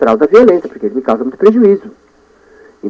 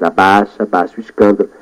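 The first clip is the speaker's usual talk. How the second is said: self-calming; 4 semitones lower than usual. Shown as a demonstration. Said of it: "Não quero fazer muito escândalo".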